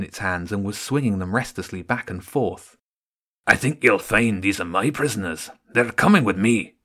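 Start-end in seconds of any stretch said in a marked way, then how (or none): 3.5-6.7 a rat soldier claiming his tunnel; menacing rat guard. Acted. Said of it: "the rat with the pike said".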